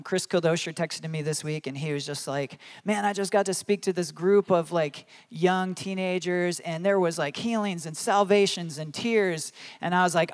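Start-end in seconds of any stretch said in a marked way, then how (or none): 2.8-9.5 lightly acted excitement, pitched up; excited retelling. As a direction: share thrilling news like an excited friend. Retelling a friend's excited text.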